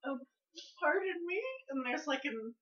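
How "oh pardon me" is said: put-on polite old man voice. Voiced older man at door.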